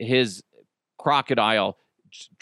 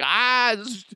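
mock blaming; 10 semitones higher than usual. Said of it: "and I'm like".

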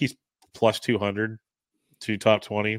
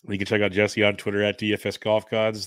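ordinary talk

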